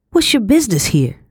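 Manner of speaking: a housekeeper lightly voiced demanding a stranger's business. A narrator's reading. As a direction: question a stranger sharply but lightly voiced. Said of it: "she demanded".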